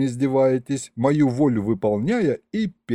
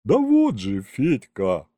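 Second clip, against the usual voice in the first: heavy sigh; slower than usual. Acted. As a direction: sigh it out heavily. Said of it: "Так тяжело вздохнула она".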